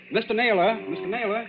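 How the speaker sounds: calling out. Acted. Secretary calls to his employer.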